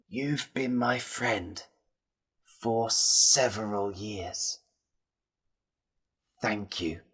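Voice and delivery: slow, soft, fading farewell; weak dying words. A narrator's reading. Jim's last words to his friend Ben, weak and fading. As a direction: let each phrase out slowly and softly, fading away.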